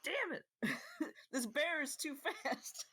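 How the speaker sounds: high, loud frustrated cry; frustrated outburst. Real, not acted. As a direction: curse at the missed shot. Missed shot, frustrated.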